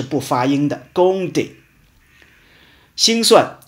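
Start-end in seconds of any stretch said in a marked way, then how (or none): 0.9-1.5 compter said without any p sound; silent p. Shown as a demonstration. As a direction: leave the p out of compter. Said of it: "p是不发音的". (compter里的p不发音)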